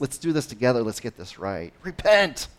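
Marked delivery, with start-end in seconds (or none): 1.8-2.5 high, loud street-preacher cry; mock shouted repent. Street preacher shouting at passersby, mock loud cry. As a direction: shout it like the sign guy. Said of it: "the guy holding the sign that says repent".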